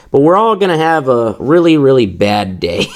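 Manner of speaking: mock dramatic shout. Dramatic doom prediction, shouted ending.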